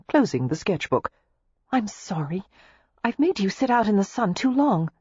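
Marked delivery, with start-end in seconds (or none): 1.7-4.9 lifted, apologetic concern; concerned apology. A narrator's reading. Daisy apologising to her sitter, concerned. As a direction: apologise with worry for him. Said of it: "Daisy asked in concern".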